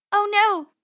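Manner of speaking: high, loud cry of dismay; panicked high-pitched exclamation; yelling. Acted. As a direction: yell out in alarm. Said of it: "yelled Penny".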